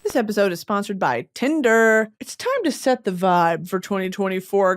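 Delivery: upbeat sponsor read, brisk and bright; host reading a Tinder sponsor spot to listeners, upbeat. Acted. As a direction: sell it like a podcast ad.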